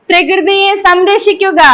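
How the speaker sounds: slogan led in one smooth run; slogan call-out. Shown as a demonstration. Teacher leading children in a nature slogan, called in one go. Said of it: "അപ്പൊ ഉറക്കെ പറയണേ".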